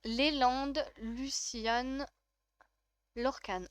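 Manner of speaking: Léland, Luciane, Lorcan as separate measured names; stylish pronunciation. Shown as a demonstration. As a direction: sound out Léland, Luciane, Lorcan with final consonants pronounced. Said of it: "Dit comme ça, c'est très stylé".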